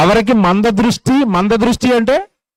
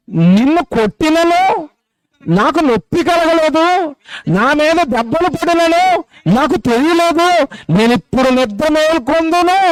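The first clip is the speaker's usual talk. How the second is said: scripture reading; 3 semitones higher, slower than usual. Acted. Preacher reading the drunkard's verse aloud, slow and solemn. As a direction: intone the verse slowly, word by word.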